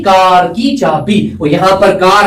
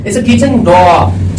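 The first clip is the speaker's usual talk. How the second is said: slow model reading; much slower than usual. Shown as a demonstration. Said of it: "ना जी, ना जी".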